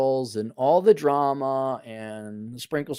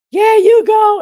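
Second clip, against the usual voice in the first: mock cheer; 14 dB louder, slower than usual. Mocking online spokeswoman's fans.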